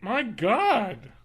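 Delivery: startled by a burp; burping after fizzy drink. Real, not acted. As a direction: burp cuts into it. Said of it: "I'm burping like crazy".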